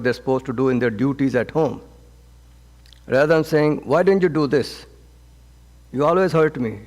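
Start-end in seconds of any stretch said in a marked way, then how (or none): 3.8-6.8 mildly raised, reproachful accusation; accusing blame. Retold or imitated. Spouse blaming partner for undone duties, mock accusing tone. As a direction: point the finger at your spouse, lightly acted. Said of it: "Pointing fingers".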